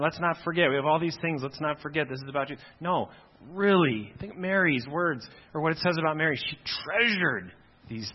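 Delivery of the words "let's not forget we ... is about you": rote, running reminders together; tossed-off reminders without real weight; just saying it. Acted. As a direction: recite it as empty lip service. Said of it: "do we just say it".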